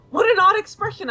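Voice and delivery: amused exclamation. Acted. Reading amused journal.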